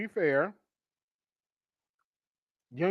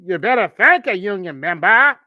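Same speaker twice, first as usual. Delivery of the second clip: mock Southern preacher echo; mocking accent; 6 dB louder than usual. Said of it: "A K A bullshit".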